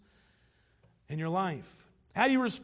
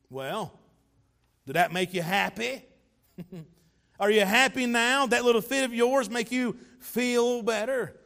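mock smart-aleck needling; sarcastic; 2 semitones higher, 3 dB louder than usual. Onlooker needles someone after an angry fit, acted sarcasm.

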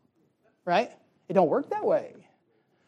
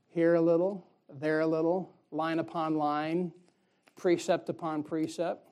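line upon line drawn out slowly, each word spaced; slow, deliberate recital. Shown as a demonstration. Preacher teaching the church how God teaches, slowly. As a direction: recite it slowly like a lesson being learned. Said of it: "How'd you learn it?".

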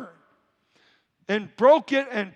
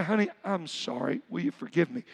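tender apology; 4 semitones lower, 5 dB quieter than usual. Acted. Spouse apologizing, acted out.

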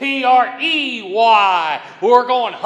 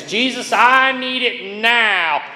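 demanding prayer; 5 semitones higher than usual. Retold or imitated. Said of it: "make demands".

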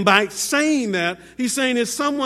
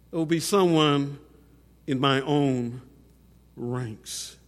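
solemn warning. Acted. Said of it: "said solemnly, truthfully".

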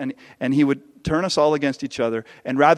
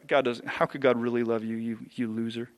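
soft, sneering taunt, dropping much softer on loser; enemy whispering; 4 semitones lower, 7 dB quieter than usual. Retold or imitated. The enemy taunting the believer in a soft, sneering murmur. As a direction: murmur it like a voice in the ear. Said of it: "He's whispering in our ears".

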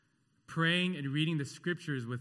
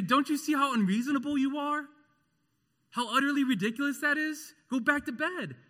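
much higher and louder, exasperated; harsh parental scold; 12 semitones higher, 6 dB louder than usual. Retold or imitated. Parent snapping at a crying child, loud exasperated scold. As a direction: bark it like a fed-up parent.

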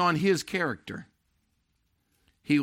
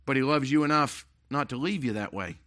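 softer, lower, gently on "you"; soft, tender restatement; 3 semitones lower than usual. Shown as a demonstration. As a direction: bring "not to leave you that way" down, soft and caring. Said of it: "Listen real close".

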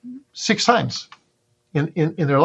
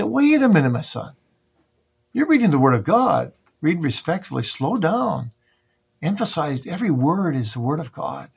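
put-on father correcting child; 3 semitones higher than usual. Father to his son reading the Bible, correcting him. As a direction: gently check an over-hasty young reader.

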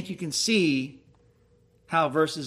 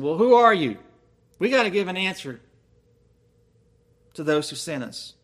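pressing demand; 3 dB louder than usual. Retold or imitated. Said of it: "so they kept pressing".

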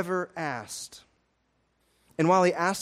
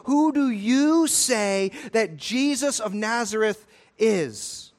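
slow, louder, leaning on you; stress on YOU; 3 dB louder, slower than usual. Shown as a demonstration. Preacher putting the question straight to his listeners, stressing you. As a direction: make you the centre of the line. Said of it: "the question is the you".

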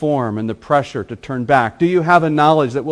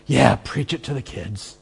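mock cheering; 4 semitones higher, 4 dB louder than usual. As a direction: voice climbs into a high eager cheer. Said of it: "I could see myself saying".

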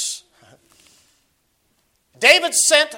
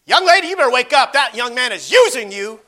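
warning call; 2 semitones higher, 5 dB louder than usual. Retold or imitated. Preacher imagining warning a young lady in public, urgent raised voice. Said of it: "It's like".

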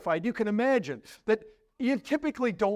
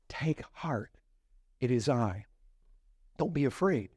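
sweet steady reassurance; 6 semitones lower than usual. Retold or imitated. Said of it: "sweet, familiar, steady voice".

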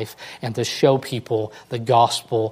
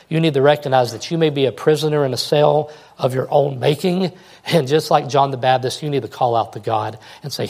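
ordinary talk

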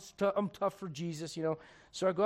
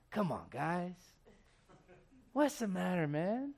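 gentle; 4 dB quieter, slower than usual. Retold or imitated. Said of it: "Just gentle".

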